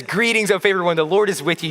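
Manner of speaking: like he's been waiting to say it; excited angel. Acted. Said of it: "You can hear the excitement in his voice".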